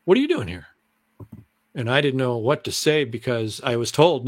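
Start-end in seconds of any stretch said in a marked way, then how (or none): 0.1-0.6 quoted hello, higher and caught off guard; retold surprised greeting. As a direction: imitate coworkers puzzled to see him. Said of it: "they were like".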